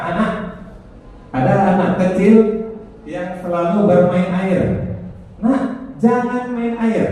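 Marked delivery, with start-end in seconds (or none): 5.4-7.1 put-on higher-pitched telling-off of a small child; mock parental prohibition. Teacher acting a parent stopping a child at water play, prohibiting.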